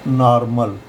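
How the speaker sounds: "नॉर्मल" as naar-mal, open AA first; AA sound. Shown as a demonstration. Teacher repeats the correct word, "नॉर्मल" as naar-mal. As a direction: say "नॉर्मल" with AA, not O. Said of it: "नॉर्मल पढ़ेंगे".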